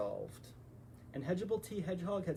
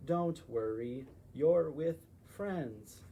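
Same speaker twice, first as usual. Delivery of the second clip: calm them down slowly; reassuring; 3 dB louder, much slower than usual. Acted. Reassuring frightened friends.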